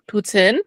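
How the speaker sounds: poutine with a short -tin ending; Canadian poutine pronunciation. Shown as a demonstration. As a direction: say poutine as POO-tin, northern style. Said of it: "So the Canadian way".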